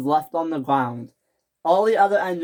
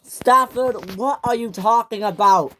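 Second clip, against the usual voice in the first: higher, louder shout; shouted question; 7 semitones higher, 5 dB louder than usual. Acted. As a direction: shout it in exasperation. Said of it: "shouted Topham Hatt".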